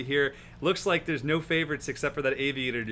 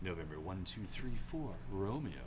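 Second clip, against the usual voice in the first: low, clipped radio call; pilot radio voice; 7 semitones lower, 5 dB quieter than usual. Retold or imitated. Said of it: "every pilot has a pilot voice".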